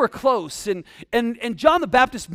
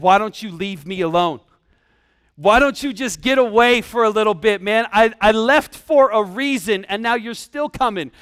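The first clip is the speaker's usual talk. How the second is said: loud, fed-up complaint; hammed-up outburst at people who won't back off; mock exasperation; 5 dB louder than usual. Preacher as himself in Jesus' place, telling the crowd off, exasperated.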